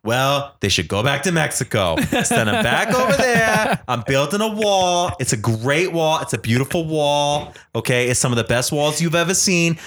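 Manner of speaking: hammy Trump rally brag about a wall; Donald Trump impression. Host showing off his Trump voice to his cohost. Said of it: "I told you I'm working on it".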